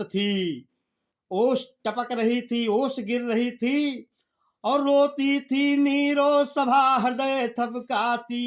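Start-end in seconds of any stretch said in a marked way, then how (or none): 4.6-8.4 slow, sung-out poem line; slow chanted poetry reading; verse recitation. Acted.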